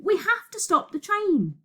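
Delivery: high, pressing voice; urgent insistence. Acted. Shouted argument on runaway train.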